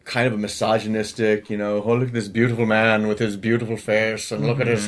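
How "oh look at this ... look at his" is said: lightly put-on old radio British; mock old-timey British leading man; a hint of plummy old-time British; old-timey British accent. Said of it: "that's the accent you remember them using".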